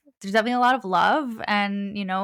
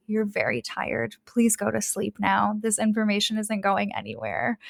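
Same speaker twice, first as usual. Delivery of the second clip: gentle. Retold or imitated. Records tell a tired seeker to go sleep, gently. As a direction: gently send someone off to bed. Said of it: "They just so gently were like".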